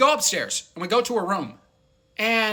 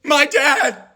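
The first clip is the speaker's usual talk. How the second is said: much higher, squeaky who; incredulous who; 12 semitones higher, 3 dB louder, much slower than usual. Retold or imitated. Retelling his own baffled high-pitched who. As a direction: shriek it in disbelief. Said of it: "And I'm like".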